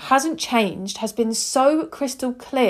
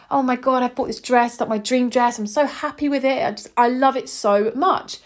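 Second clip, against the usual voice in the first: higher-pitched, delighted retelling; excited gushing; 4 semitones higher than usual. Retold or imitated. Telling her friend about the dream dress, excited gushing. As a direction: gush about a beloved purchase.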